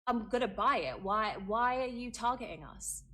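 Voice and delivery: reliving the angry stand-off, loud and high; retold angry retort. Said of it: "I started saying".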